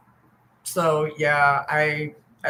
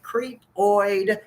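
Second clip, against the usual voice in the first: 1 drawn-out disgust; 3 semitones higher than usual. Real, not acted.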